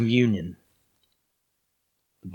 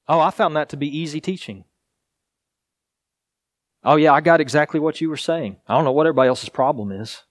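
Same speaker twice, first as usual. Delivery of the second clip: higher, quick and flippant; mock breezy answer; 4 semitones higher, faster than usual. Preacher mocking what the disciples didn't say, flippant and quick. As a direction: toss it off like a know-it-all, mocking. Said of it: "They don't say".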